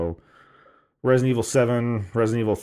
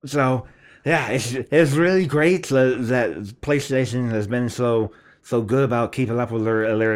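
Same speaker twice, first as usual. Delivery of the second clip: mimicked clerk voice. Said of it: "I'm gonna try and mimic the voice".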